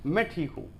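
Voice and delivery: evasive, closing the subject; not really fine. Shown as a demonstration. Teacher demonstrating someone hiding that he isn't fine, evasively. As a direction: say it as if unwilling to talk. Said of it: "मैं ठीक नहीं हूँ".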